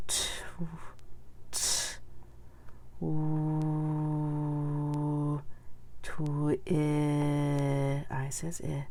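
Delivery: segmenting "twin" sound by sound, slow and drawn out; teacher sounding out "twin" in pieces. Shown as a demonstration. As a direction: stretch each sound of "twin" apart, pausing between. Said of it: "Let's say it".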